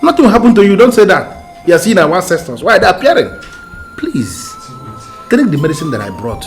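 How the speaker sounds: high, loud urgent pleading; pleading insistence. Acted. To her dying brother, loud high pleading.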